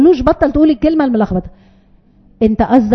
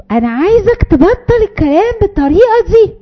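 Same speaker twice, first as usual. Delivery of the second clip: scolding command; 8 semitones higher than usual. Shown as a demonstration. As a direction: tell the kid off sharply. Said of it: "امر سلبي".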